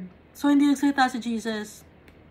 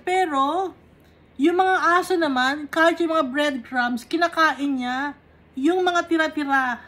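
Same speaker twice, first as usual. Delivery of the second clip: fervent preaching; 3 semitones higher, 3 dB louder than usual. Real, not acted. Preacher explaining with rising force.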